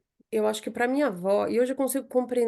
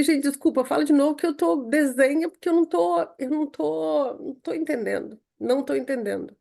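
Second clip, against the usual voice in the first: retold exasperated plea; 5 semitones higher than usual. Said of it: "eu falei".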